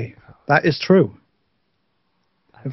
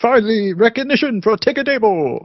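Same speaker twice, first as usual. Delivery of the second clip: higher, playful cry of vindication; mock triumph; 6 semitones higher than usual. Guest cheers for the cave town's recognition, mock triumph.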